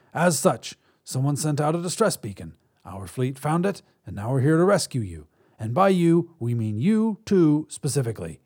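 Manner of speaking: a hint of a chatty alien. Alien explaining rescue.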